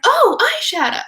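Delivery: high airy whisper of surprise. Retold or imitated. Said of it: "They're like".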